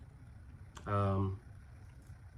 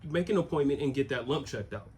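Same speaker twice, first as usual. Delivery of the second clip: higher, firm motherly orders; a worried mother insisting he book the appointment; imitating mom, higher and pressing; insistent mom; 5 semitones higher, 3 dB louder, faster than usual. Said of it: "She was like".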